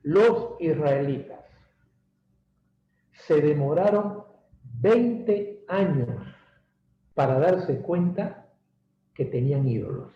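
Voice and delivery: slow, stretched out phrase; slow motion. Shown as a demonstration. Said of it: "Lo digo en cámara lenta".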